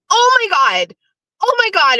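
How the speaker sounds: high squealing "Oh my God"; squealing delight. Retold or imitated. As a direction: squeal like Miss Piggy over treasure. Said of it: "I squealed like the Miss Piggy I am".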